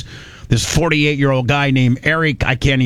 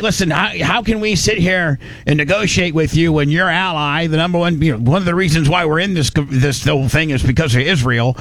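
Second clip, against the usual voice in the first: put-on Middle Eastern accent; 2 semitones higher than usual. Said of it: "I should do a Middle Eastern accent".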